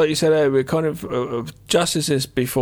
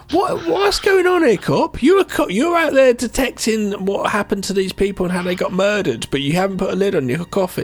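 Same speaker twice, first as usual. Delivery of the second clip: high, loud mock disbelief at the cop; mock outrage; 5 semitones higher, 3 dB louder than usual. Film fan scolding careless cop on screen, high mock outrage. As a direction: scold the cop in shrill incredulity. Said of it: "mock scolding the cop".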